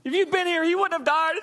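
very high-pitched hammed-up reproach; mock emotional wail. Mary grieving at Jesus over her brother, mock wail. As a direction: wail it in exaggerated grief. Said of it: "Now with Mary".

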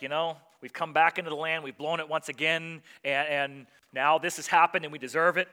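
people crying out in regret, loud and pleading. Retold or imitated. The people cry out to God, loud pleading. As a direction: plead loudly like a remorseful crowd. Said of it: "the people are crying out".

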